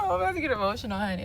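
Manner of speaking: high, laughing through rising tears; laughing emotional. Real, not acted. Telling her viewers she's tearing up, laughing.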